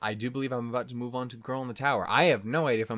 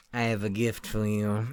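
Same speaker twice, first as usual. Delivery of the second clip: shady stranger. Acted. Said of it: "some dude shows up like this".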